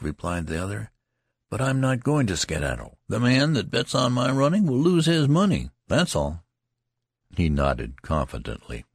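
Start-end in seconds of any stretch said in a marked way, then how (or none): 1.5-6.4 lightly raised, grumbling soldier voice; lightly voiced soldier airing a grievance; complaining soldier. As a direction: gripe about the marching. Loud soldier asserts himself.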